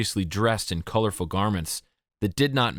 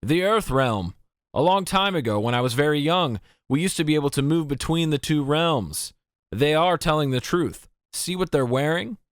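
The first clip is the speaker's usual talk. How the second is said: put-on higher, raised elderly man's voice; old man's voice; 6 semitones higher than usual. A narrator's reading. Old man vouching for the children to the officers, aged and raised. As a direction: tell it like a wise old villager remembering. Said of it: "a groggy, old-sounding voice".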